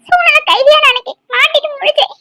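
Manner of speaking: crying while explaining herself; tearful. Acted. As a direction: justify yourself through tears. Ex-lover defending herself crying.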